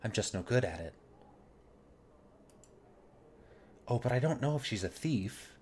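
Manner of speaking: lightly voiced, gentle and bashful hostess; a hint of a timid, polite courtesan; shy brothel hostess. Nenny flustered.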